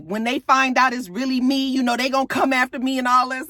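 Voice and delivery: mock worried. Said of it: "He's all worried".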